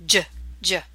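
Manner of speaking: "j, j" as the isolated consonant, like English J; short separate "j" sounds, said twice; soft G sound. Shown as a demonstration. Teacher isolating the soft G, J sound. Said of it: "sounds like the letter J".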